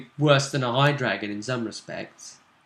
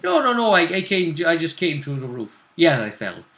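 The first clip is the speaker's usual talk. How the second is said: Dalish elf; 3 semitones higher than usual. Acted. Elf explaining his fall, lightly in character. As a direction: protest quickly in character, then give in. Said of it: "They were saying".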